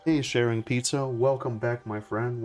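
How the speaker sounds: normal talking voice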